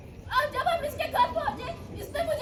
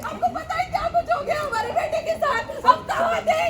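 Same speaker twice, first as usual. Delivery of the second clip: fast, raised, upset voice; frantic reproach; 4 semitones higher, 5 dB louder than usual. Acted. Mother scolds the father about their son, frantic and fast. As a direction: demand that he do something. Wife confronts absent husband.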